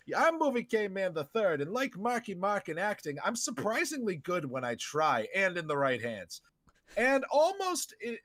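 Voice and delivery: animated podcast host intro; show intro. Acted. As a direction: roll out a lively welcome to the listeners. Hosts the show's opening intro.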